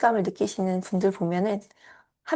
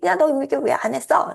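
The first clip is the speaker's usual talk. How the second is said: higher, louder mock scold; 4 semitones higher, 4 dB louder than usual. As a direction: tell off like a parent. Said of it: "라고 혼내는 그런 목소리". (혼내는 목소리 흉내)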